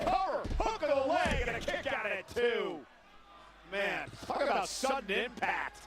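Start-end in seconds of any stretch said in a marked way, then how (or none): 0.0-2.8 high excited call, settling down. Real, not acted. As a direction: rush the count, then ease off. Near fall called live.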